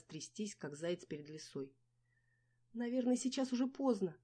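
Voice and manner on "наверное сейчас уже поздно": shouting excuses. A narrator's reading. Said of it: "выкрикивала последние аргументы я".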